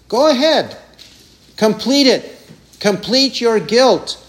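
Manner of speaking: scornful go ahead; taunting. Shown as a demonstration. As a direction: egg them on. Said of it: "Jesus is taunting people like this".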